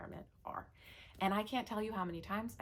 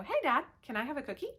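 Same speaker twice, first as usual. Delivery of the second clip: lightly voiced pleading child, higher pitch; a hint of a hopeful kid angling for yes; wheedling kid; 7 semitones higher, faster than usual. Kid trying Dad after Mom said no, lightly voiced wheedling. Kid asking the other parent.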